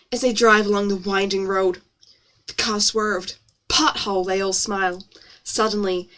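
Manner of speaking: story read in an exaggerated American accent. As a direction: narrate with put-on American vowels. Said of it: "my lovely American accent".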